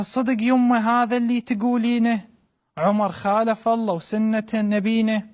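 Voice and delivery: mother's voice in Iraqi dialect; iraqi arabic accent. Acted. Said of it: "بلهجة عراقية خالصة".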